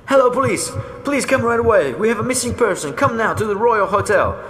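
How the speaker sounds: high, loud, frantic phone plea; barely holding it together; distraught call to the police; upset. A narrator's reading. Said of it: "so upset she can barely manage to speak".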